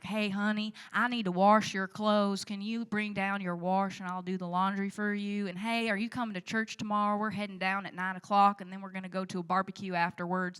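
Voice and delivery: lightly exaggerated Southern country mom accent. Mom asking daughter about laundry and church, country accent. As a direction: run on chattily in a small-town Kentucky accent. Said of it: "my mom has the country accent".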